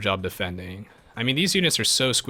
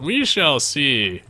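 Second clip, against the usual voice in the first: mock ominous; 4 semitones higher, 4 dB louder, much slower than usual. Ominous reply to viewer "Russian accent.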